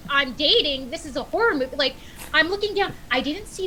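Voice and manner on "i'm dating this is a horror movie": high, loud, indignant protest at the stranger; mock-outraged, set him straight; exasperated retort. Retelling to friends, indignant at the rescuer.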